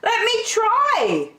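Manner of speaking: high hooting owl voice; wise owl. Acted. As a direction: hoot like a wise old owl. Owl speaking.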